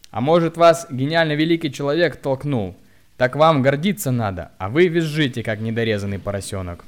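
loud mockery. A narrator's reading. Bystander woman jeers at the hunchback loudly. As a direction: jeer at him.

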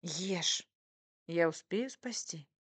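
mock-urgent, drawn-out teasing. A narrator's reading. Wife teases husband about poisoned soup, playful. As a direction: egg him on playfully. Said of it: "продолжала дразнить его я".

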